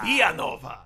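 Villanova in a Hispanic accent; short Hispanic-accented call. Shown as a demonstration. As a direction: correct it with a Spanish-style accent. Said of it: "clearly an Hispanic accent".

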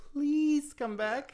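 high, drawn-out fake crying plea; mock tearful pleading. Host begging his co-host on the phone, mock-tearful pleading. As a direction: whine it slowly, hammed-up begging. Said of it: "when I cry and plead on the phone".

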